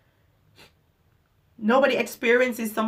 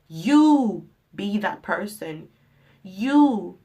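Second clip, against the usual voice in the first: emphatic urging; 5 dB louder, slower than usual. Real, not acted. Urging viewers, loud emphatic.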